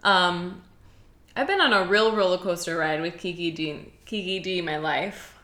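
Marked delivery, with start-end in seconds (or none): 1.3-5.3 talking around a piece of ice; words round an ice cube in the mouth. Real, not acted. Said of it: "I have a piece of ice in my mouth".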